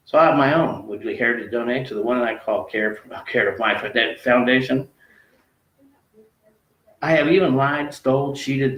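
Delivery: emphatic spoken-word verse, lifted and lilting; poem recitation. Acted. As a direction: drive each rhymed line home with rising emphasis. Continues poem more emphatically.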